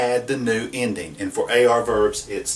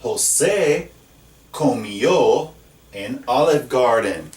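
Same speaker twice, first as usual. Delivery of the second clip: José comió said slowly and clearly; slow, careful José comió; slow model sentence; slower than usual. Shown as a demonstration. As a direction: read the example sentence slowly. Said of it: "Look at this next one".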